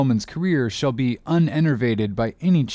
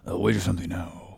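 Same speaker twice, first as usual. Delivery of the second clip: hushed aside to a shipmate; low confiding whisper; 5 semitones lower, 7 dB quieter, faster than usual. Acted. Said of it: "whispered Stubb to Flask".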